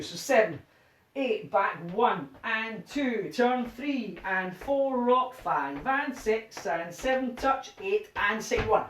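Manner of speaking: slow rhythmic count calling; dance count calling. Shown as a demonstration. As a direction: call the steps to the beat.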